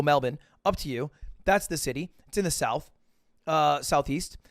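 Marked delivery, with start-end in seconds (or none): 0.0-0.4 Melbourne said the Australian way; assimilated local. Shown as a demonstration. Comic tries to assimilate, Australian-style Melbourne. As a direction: say Melbourne like a local, second syllable reduced. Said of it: "you can try to assimilate".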